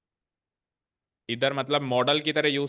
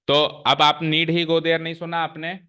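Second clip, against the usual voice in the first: 1 emphatic scold; 4 semitones higher, 5 dB louder, slower than usual. Real, not acted. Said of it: "teacher scolding class".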